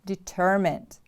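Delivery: "Determined" with the stress on TER; stress on second syllable. Shown as a demonstration. Teacher models the word for repeating, stress on TER in "Determined". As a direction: lean on the middle syllable of "Determined", then fall. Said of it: "The stress is on the second syllable".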